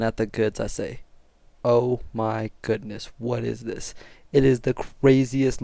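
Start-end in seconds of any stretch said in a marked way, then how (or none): 1.6-3.9 slow, hushed mock amazement; retold awe. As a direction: marvel slowly at what you see. Acts out marvelling at the goods.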